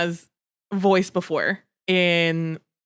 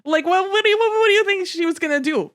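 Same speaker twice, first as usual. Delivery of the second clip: exasperated rant. Retold or imitated. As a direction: scold Edward in mock outrage, pitch climbing. Ranting at Edward about Bella.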